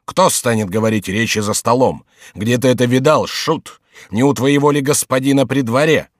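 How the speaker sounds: a touch of scornful protest; indignant monk, lightly voiced. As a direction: lightly play a monk brushing off a jester.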